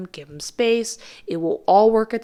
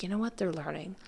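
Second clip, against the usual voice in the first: calm, no attitude; 2 semitones lower, 10 dB quieter than usual. Retold or imitated. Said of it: "you're not gonna have any attitude".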